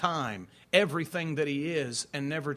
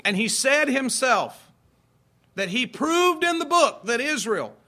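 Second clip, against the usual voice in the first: building louder and higher in disbelief; rising indignation; 4 semitones higher, 5 dB louder than usual. Real, not acted. Pastor to congregation, swelling with indignation. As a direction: preach it louder, incredulous.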